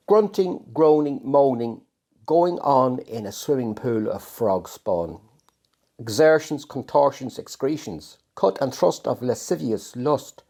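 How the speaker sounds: deliberate, lingering recital of each word; poetry reading. Acted. Poet reading his Frog Spawn poem aloud, measured recital. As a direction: relish the sounds, read it like a performance.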